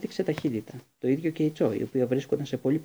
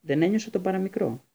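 excited; 6 semitones higher than usual. A narrator's reading. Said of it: "είπε ενθουσιασμένος ο Χάρη".

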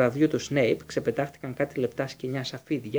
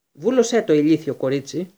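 furious shout; 3 semitones higher, 9 dB louder than usual. A narrator's reading. Teacher loses his temper, yelling at the student. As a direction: lose your temper and bellow at her. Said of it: "φώναξε ο Σνέιπ".

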